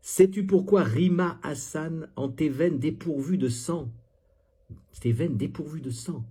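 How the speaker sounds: pointed declamatory reading; mock poem recital. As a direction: recite it with exaggerated weight. Reads out the poem mockingly.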